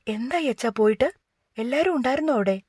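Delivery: eager hurried question. Acted. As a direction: ask her father in a rush. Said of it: "തിടുക്കത്തിൽ വന്ന് അവൾ അച്ഛനോട് ചോദിച്ചു".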